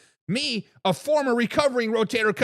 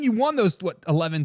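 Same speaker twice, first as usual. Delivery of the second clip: normal talking voice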